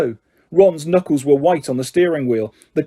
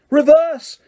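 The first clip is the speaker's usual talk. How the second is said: high, sharp yell; 10 semitones higher, 3 dB louder than usual. A narrator's reading. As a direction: yell the command. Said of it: "Harry yelled".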